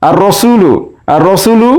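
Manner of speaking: "আর রসুলু" with a doubled R, no L; silent lam. Shown as a demonstration. Teacher repeating for students, lam silent in "আর রসুলু". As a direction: run the article into the R of "আর রসুলু". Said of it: "আলিফ লাম উচ্চারণ হচ্ছে না".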